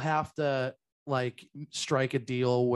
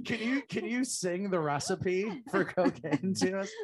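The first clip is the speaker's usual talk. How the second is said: laughing; 4 semitones higher than usual. Real, not acted. Laughing request to sing.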